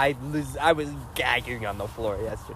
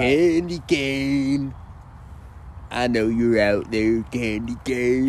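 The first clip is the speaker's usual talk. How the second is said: Rusty Nail impression; 2 semitones lower, slower than usual. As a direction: draw it out like a stalker on the radio. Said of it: "I'm nailing this impression".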